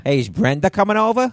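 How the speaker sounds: high-pitched mock Boston accent; exaggerated Boston question. Shown as a demonstration. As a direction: call out in hammed-up Bostonian. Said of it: "And then Boston's like".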